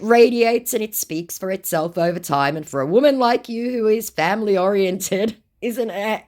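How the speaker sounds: high, put-on sweet-talking scammer; scammer's put-on voice. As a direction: pitch it up as a flattering scammer.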